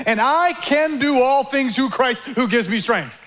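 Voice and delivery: slow quote with a laugh in it; amused quote. Retold or imitated. Preacher quoting Paul with a chuckle. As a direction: say it grinning, a little slow. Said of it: "that's what he says".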